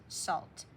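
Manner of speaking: salt said slowly and clearly; spoken slowly for spelling. Shown as a demonstration. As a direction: say salt slowly so each sound is heard. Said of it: "Here's how it goes".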